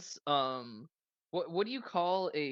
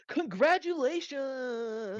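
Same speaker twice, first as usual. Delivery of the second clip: gaudy hologram announcer; 9 semitones higher, much slower than usual. Acted. Gaudy projection woman announces.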